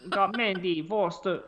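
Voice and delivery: attempted Jamaican accent, half-hearted. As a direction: try a light Jamaican accent on the list. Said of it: "a Jamaican accent".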